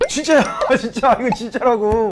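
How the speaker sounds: real chuckle between the words; amused, half-laughing protest; laughing insistence. Real, not acted. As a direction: laugh through it while insisting.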